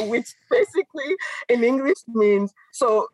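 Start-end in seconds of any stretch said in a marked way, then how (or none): 2.7-3.1 imitating a French African accent, mildly; a light French African accent on the repeated words; mock French African accent. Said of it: "you know, with the accent".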